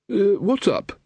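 put-on high, startled old wizard. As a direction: call out, caught off guard. Ridcully at the coach.

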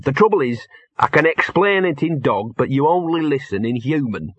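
exasperated streetwise dog; frustrated talking dog. Acted. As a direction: complain that humans just don't get it.

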